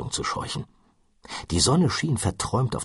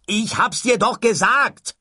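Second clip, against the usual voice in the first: higher, louder exasperated yell; shouted; 5 dB louder than usual. Acted. Ford yelling at Arthur about the sofa, exasperated shout. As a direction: shout it, fed up with repeating. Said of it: "schrie Ford".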